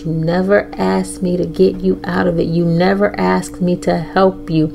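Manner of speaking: a soft, calm hint of a fatherly God. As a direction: speak it quietly like a loving father. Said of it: "he said in a calm, fatherly, loving voice".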